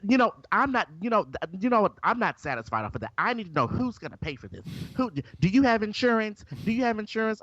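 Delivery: a hint of a shrill, bossy white lady; mock outraged lady. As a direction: act out a fussy woman making a scene. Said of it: "she was being so extra".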